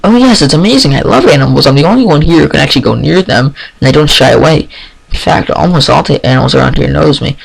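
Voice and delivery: eager, bubbling rush of words; suddenly lit up about her animals; gushing. Acted. Shy pony gushing to a new friend about animals, eager. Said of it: "begins to gush".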